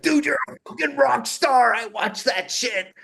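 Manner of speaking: high, loud, thrilled congratulations; excited Lee on the phone. Retold or imitated. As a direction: gush like a proud friend calling. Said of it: "And he's like".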